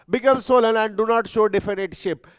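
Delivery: very slow, word-by-word dictation; teacher dictating notes, very slow. Shown as a demonstration. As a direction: spell it out slowly for note-taking.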